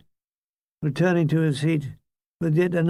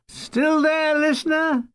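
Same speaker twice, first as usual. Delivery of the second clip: teasing aside; 8 semitones higher than usual. Acted.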